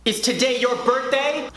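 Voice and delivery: high put-on teacher voice; teacher imitation. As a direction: imitate a teacher questioning a pupil. Teacher questions crying boy, acted.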